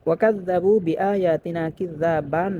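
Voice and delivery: slow, drawn recitation ending on a long a; Quran recitation. Shown as a demonstration. Teacher reciting a verse for students, slow and drawn. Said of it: "ওখানে".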